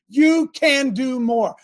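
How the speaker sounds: slow, emphatic shout on you; coaching shout. Real, not acted. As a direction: drive it home like a coach. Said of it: "I'm gonna coach you".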